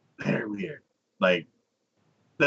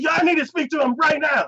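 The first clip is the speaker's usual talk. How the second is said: much higher, raised-voice insistence; mock angry demand; 4 dB louder than usual. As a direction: imitate an escalating, indignant demand. Demand escalates after refusal.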